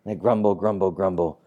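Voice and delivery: lightly acted grumbling; mock grumbling. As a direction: chant it low like a grumbler. Mimics the Jews grumbling.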